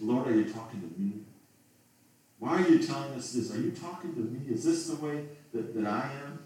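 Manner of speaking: a hint of a worried listener asking; questioning listener. Preacher voicing a listener asking Jesus, lightly voiced and worried. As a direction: ask as if caught out. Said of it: "this person asking Jesus".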